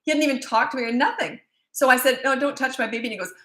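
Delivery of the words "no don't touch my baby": raised pitch, firm mother's warning; firm retold warning. Mother retelling warning a stranger off her baby, firm. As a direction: warn him off, retelling it.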